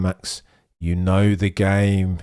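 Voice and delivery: low, calm voice of a race engineer on the radio; steady him like an engineer over the team radio. Retold or imitated. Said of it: "I think G P is telling".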